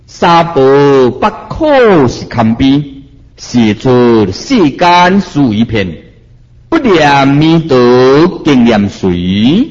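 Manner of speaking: slow, measured chanting of a Buddhist verse; slow verse recitation. Shown as a demonstration. Master recites the verse to his listeners, slow and solemn. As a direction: recite each line slowly like scripture. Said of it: "我最后念一遍啊".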